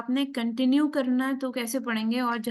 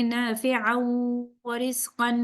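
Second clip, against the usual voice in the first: recited demo; much slower than usual. Shown as a demonstration. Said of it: "اگر نہیں روک رہے تو پھر کنیکٹ کر سکتے ہیں".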